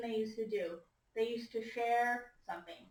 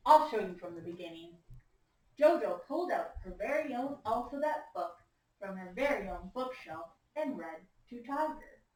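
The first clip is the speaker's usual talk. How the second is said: put-on story read-aloud to children; 3 semitones lower than usual. A narrator's reading. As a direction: read it to a class of young listeners. Reads picture book to class.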